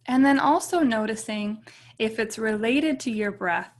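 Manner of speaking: calm meditation guide with long, settling pauses; guided meditation. Real, not acted. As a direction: ease them gently into stillness, leaving space between phrases.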